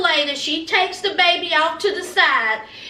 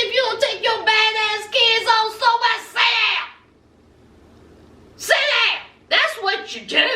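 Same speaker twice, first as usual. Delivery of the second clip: raised, sharp mock scolding; hammed-up telling-off, higher voice; exasperated goat owner; 4 semitones higher than usual. Goat owner orders badly behaved kids away, mock exasperated.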